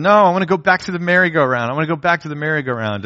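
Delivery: put-on a toddler begging to go back; toddler whining. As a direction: whine like a two-year-old. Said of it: "And Cadence said".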